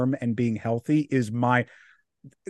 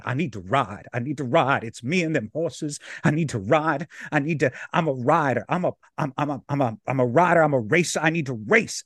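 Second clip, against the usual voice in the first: passionate actor. Retold or imitated. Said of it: "he's so passionately enthralled about it".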